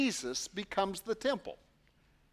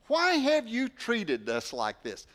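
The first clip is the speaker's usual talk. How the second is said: distressed mother; 7 semitones higher, 5 dB louder than usual. Acted. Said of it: "he writes this just with full of emotion".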